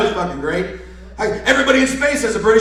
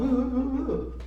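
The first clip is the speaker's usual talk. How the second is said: mimicked ooh; 4 semitones higher, 12 dB quieter, slower than usual. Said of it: "she comes up and it's all".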